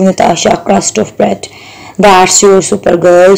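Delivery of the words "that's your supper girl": shouting witch. Acted. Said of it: "she shouted".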